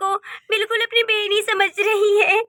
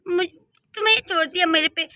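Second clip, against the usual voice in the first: mocking laugh. Bully cousin mocks orphan niece.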